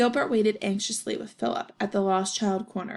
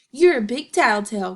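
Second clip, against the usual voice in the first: loud teasing jab; taunting; 7 dB louder than usual. Acted. Gilbert to Philip, loudly mocking. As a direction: call him a tattletale to his face. Kids arguing on field trip.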